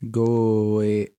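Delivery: "Going" split into two long-held parts; robotic stretched vowels. Shown as a demonstration. Learner copying the Welsh example, robotic and drawn out. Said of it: "sounded like a fucking robot".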